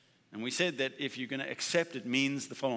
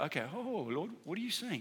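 soft prayer; 5 semitones higher, 6 dB quieter than usual. Retold or imitated. Quotes his own prayer.

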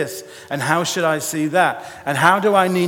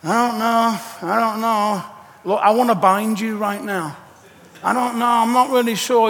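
dithering Peter; 2 semitones higher than usual. Retold or imitated. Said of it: "imagine him outside the house".

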